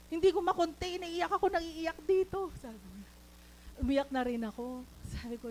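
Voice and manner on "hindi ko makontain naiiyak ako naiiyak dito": louder, higher retelling of someone overcome; tearful. Retold or imitated. Friend crying at the office, imitated tearful outburst. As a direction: imitate a friend bursting with happy tears. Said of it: "Umiiyak siya".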